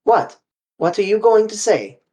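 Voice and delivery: high and loud, startled; sharp surprise. A narrator's reading. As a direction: spin round and demand it. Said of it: "He spun around on me".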